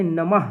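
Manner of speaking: "नमः" ending in a clear ह; audible final h. Shown as a demonstration. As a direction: say "नमः" as na-mah, h sounded at the end. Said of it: "ह की sound जो है".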